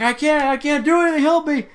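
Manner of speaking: very high, loud, hammed-up plea; mock panicked screaming. Driver pleading with cop from runaway car, mock panic. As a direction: yell helplessly, imitating a trapped driver. Helpless driver yelling back.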